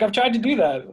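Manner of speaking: high, loud retold protest; mock exasperation. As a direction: imitate a put-out boss complaining. Retells director's exasperated reply.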